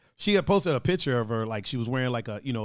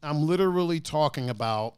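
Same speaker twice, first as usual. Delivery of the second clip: mimicking co-host; 2 semitones higher than usual. Mimicking co-host's line.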